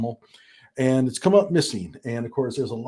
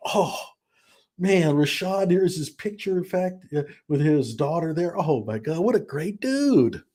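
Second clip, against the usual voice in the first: mock admiring viewer; 5 semitones higher than usual. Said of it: "You think".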